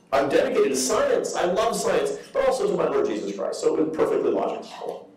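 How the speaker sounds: put-on British accent. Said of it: "this British accent".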